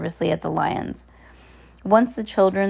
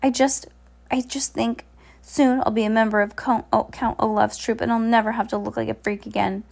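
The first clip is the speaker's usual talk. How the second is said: character voice; 5 semitones higher than usual. Acted. Hugo voiced as hopeful performer.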